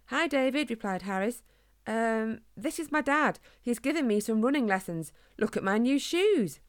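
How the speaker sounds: lightly voiced eager child; eager young hog. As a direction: show off to a friend proudly. Young hog shows off to friend.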